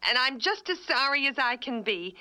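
contrite. Acted. Wife apologizing after his outburst.

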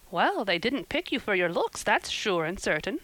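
emphatic, blunt verdict. A narrator's reading. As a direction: state it with firm emphasis. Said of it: "was Missus Rachel Lynde's emphatic comment".

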